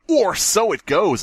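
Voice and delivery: high, slow mock-spooky narration; hammed-up campfire narrator; ominous storyteller. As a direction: drag out the eerie line. Reading the story's ominous line.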